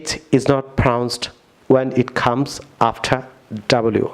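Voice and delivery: slow, spelled-out rule for learners; teacher dictating a rule slowly; slow rule statement. Shown as a demonstration. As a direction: read the rule slowly, word by word. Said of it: "rule".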